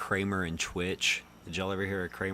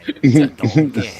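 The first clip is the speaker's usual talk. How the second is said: loud Scottish Shrek impression; 5 semitones higher, 15 dB louder than usual. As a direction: boom it like Shrek. Shrek quote.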